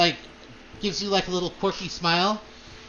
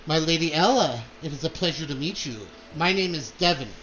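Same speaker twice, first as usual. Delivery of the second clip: put-on charming young man; 3 semitones lower than usual. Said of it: "a younger man's voice".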